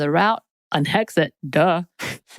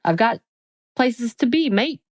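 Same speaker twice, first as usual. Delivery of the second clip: put-on quick stab at a British accent, lifted on places; playful fake British accent; mock British accent; 4 semitones higher than usual. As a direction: toss off mate in a cheeky British accent. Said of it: "That was my accent".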